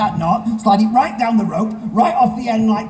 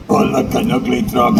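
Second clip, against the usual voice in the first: princess voice again; 11 semitones lower than usual. Acted. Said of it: "Can you talk higher?".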